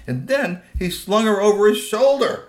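loud, high narration of the big moment; dramatic storytelling. A narrator's reading. Storyteller as the troll grabs the girl, dramatic. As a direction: lift the voice for the climax. Climax of the struggle told.

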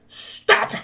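high, loud command to halt; commanding shout. A narrator's reading. Princess troll halting the werewolves, high loud command. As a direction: stop them dead with one word. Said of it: "put her hand up and said".

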